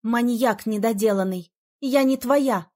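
loud furious snap rising at the end; barked. Acted. Heroine barking at the smirking mage in fury. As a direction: bark it at him. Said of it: "рявкнула я".

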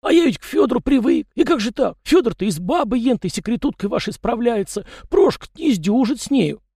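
high chatty peasant voice, pitched well up; folksy yard spirit. A narrator's reading. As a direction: play the fussy little yard spirit, talking nonstop. Tikhon laments.

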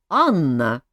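angry call, loud and low. Acted. King snaps at Anna who walked in, loud and angry. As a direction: bark the name at the intruder. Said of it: "сердито сказал он".

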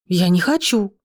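mildly stubborn refusal; understated, dug-in objection. A narrator's reading. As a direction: refuse with a touch of obstinacy. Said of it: "заявила упрямо".

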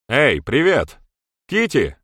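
loud, high call from above. A narrator's reading. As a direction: hail her from the top of the terrace. Окликает с верхней площадки террасы. (громкий оклик сверху)

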